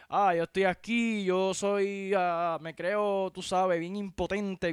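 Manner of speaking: lazy arrogant drawl of a bigwig; mocking a pompous official. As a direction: sneer it like a self-important man in a tie. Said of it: "estas personas que".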